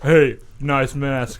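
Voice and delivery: slow, loud mocking taunt; mock slow quip; snarky greeting. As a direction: sneer it slowly. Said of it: "he's like".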